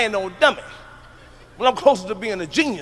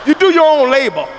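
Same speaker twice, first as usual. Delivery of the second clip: ordinary talk, nothing marked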